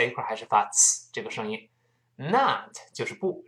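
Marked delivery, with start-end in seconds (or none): 2.2-2.8 a stressed, full-vowel "Not". Shown as a demonstration. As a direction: lean firmly on "Not". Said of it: "这个重读一下".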